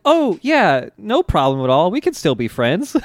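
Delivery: high, agreeable opening, imitating him; lightly voiced nice boy, eager to reassure; polite good boy. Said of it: "being the very nice, polite, good boy".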